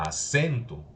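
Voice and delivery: "acento" with CEN lifted and stretched; teacher demonstrating aCENto, middle syllable stressed. Shown as a demonstration. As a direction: lean on the E in "acento", falling after. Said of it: "el acento en la E".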